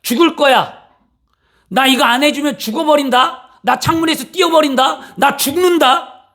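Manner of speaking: high desperate threat to die; threatening child. Retold or imitated. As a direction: shout it like a child blackmailing parents. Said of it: "목숨으로 뭐라면". (죽겠다고 협박하는 자식)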